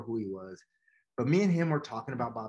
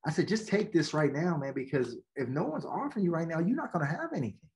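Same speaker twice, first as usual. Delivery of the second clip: exasperated coach pleading, pitched higher; frustrated; 4 semitones higher than usual. Retold or imitated. Coach urging his player to take the offer, frustrated. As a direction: push him hard, fed up and urgent. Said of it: "And, you know, I'm frustrated".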